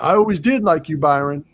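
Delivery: mock outlaw charm before the kill; menacing fond farewell. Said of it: "He tells him like that".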